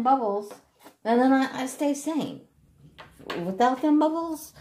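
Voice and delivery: put-on high, childlike-simple pleading; giddy pleading. Patient telling the doctor the brain needs bubbles, giddy.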